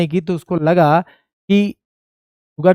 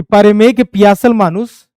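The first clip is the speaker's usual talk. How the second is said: recited line; 3 semitones higher, 5 dB louder, slower than usual. Shown as a demonstration. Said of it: "ये बहुत अच्छा line है".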